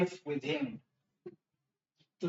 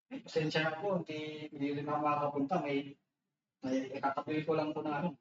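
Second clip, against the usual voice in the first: softer, hurried polite apology with po; sheepish excuse; 2 semitones lower, 6 dB quieter, faster than usual. Acted. Guest declining the servant's invitation, softer sheepish apology. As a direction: mumble an embarrassed excuse quickly.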